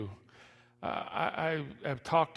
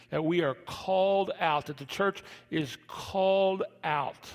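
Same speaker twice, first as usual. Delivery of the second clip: preaching; 3 semitones higher, 3 dB louder than usual. Acted. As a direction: preach it out, building. Preaching builds.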